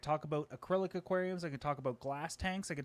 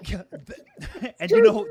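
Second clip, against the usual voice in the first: laughing; 6 semitones higher, 13 dB louder, slower than usual. Real, not acted. Laughing at his own point.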